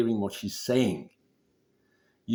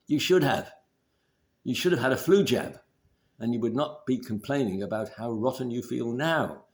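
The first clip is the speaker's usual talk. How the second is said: higher, louder scolding nag; nagging critical parent; 3 semitones higher, 4 dB louder than usual. Retold or imitated. Wife nagging her partner like a critical parent, higher and louder. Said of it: "your critical parent".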